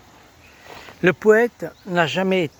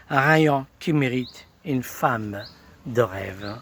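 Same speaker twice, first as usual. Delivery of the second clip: measured, lilting verse reading; poem recitation. Acted. Presenter recites verses in praise of the revolutionary poet, poem recitation. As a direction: recite the verses as a tribute, line by line.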